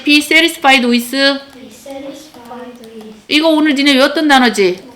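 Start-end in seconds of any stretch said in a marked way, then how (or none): 0.0-1.2 slow teacher's model for repetition; slow choral-drill delivery; repeat-after-me model. Shown as a demonstration. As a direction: draw the phrase out for students to echo. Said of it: "다시".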